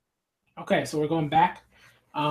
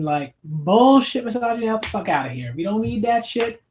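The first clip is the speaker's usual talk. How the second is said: outraged rant. Real, not acted. Reader scolding a manga soldier for his sexism, outraged. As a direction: tell off the misogynist character like you mean it.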